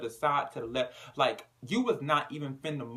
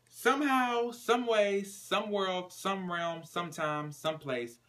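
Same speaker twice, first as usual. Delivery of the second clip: dramatic build; 7 semitones higher, slower than usual. A narrator's reading.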